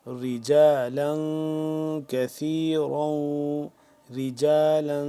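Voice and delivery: رجالا with a hidden, lightly nasal noon; ikhfa on tanween. Shown as a demonstration. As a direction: let the tanween of رجالا fade into the nose. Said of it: "اخفا کریں گے".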